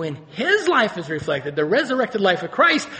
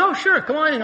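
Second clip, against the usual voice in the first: higher, easygoing welcome, retold; welcoming teacher; 10 semitones higher, 5 dB louder than usual. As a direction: imitate a teacher happily waving a student in. Teacher welcomes struggling student.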